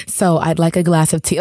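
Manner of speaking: a hint of polite, measured speech; lightly voiced off-camera rapper. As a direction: play it plain and proper, understated. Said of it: "when she's off camera, she talks like this".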